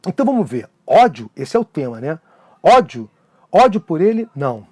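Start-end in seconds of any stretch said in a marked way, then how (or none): 2.6-4.7 a teacher reciting a sonnet to the class; poem recital. Acted. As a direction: read the sonnet with feeling, letting each line land.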